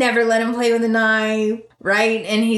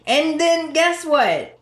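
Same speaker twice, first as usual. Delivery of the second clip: teasing build-up; 6 semitones higher, slower than usual. Real, not acted.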